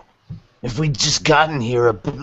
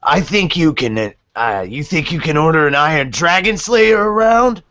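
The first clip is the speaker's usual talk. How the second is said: angry; 3 semitones higher, 3 dB louder than usual. Acted. Acted quarrel with granny.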